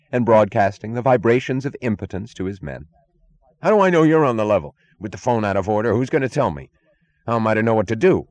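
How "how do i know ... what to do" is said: rattled chief. A narrator's reading.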